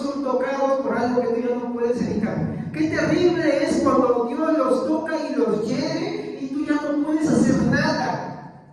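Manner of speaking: a pastor lamenting to the church, pleading and grave; fervent preaching. Acted. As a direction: press every word home to the congregation. Preaching at full force.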